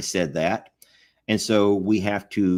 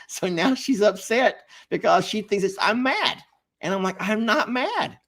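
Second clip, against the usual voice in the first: worked-up retelling; 8 semitones higher than usual. Real, not acted. Laughing retelling, raised voice.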